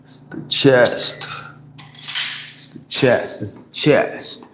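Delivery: breathy, strained push through the lift; straining mid-rep. Real, not acted. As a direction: squeeze the words out while lifting.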